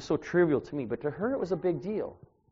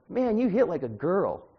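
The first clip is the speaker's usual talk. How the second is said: laughing jab; 5 semitones higher, 4 dB louder, slower than usual. Retold or imitated. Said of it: "And I said".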